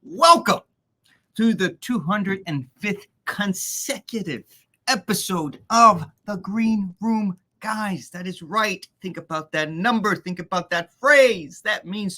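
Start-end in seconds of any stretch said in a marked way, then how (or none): 0.0-8.1 booming ring announcer, high and loud; lucha libre announcer. Acted. Host opens the live show.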